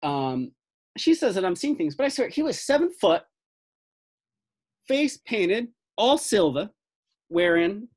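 put-on high, insistent older fellow with a Southern accent. Older fellow insisting he saw a giant, high Southern accent. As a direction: swear to it like a Southern eyewitness. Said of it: "But he's like".

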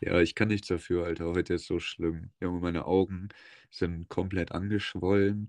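nasal, stuffed-up voice; blocked nose. Real, not acted. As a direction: talk through a blocked nose. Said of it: "meine Nase ist zu".

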